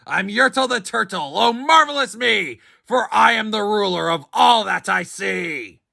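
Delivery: high, proud crowing king voice; gloating king. A narrator's reading. Yertle gloats to the world from his throne. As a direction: revel in your own greatness.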